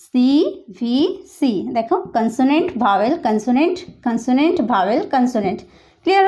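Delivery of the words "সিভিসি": slow stretched label. Shown as a demonstration. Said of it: "এবং এটা".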